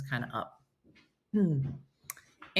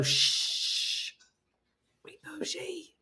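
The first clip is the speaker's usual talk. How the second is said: whisper; 11 semitones higher, 8 dB quieter, much slower than usual. Pretend. Shushing posh tennis crowd.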